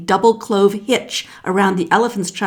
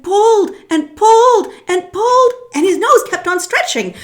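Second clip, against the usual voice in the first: high, loud straining; hammed-up strain; 13 semitones higher, 8 dB louder than usual. A narrator's reading. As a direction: heave on each word. Climax of tug.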